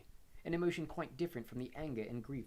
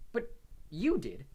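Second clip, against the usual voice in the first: slow, louder protest; slow, louder angry retort; 4 semitones higher, 7 dB louder, slower than usual. A narrator's reading. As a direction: throw it back angrily. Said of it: "said Harry angrily".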